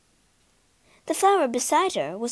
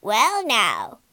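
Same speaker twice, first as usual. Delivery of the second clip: croaking crow; 3 dB louder than usual. Acted. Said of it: "croaked the crow".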